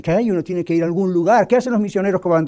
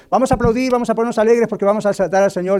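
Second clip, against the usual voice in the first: mock hype; 4 semitones higher, faster than usual. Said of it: "Yo estuve en iglesias donde han dicho".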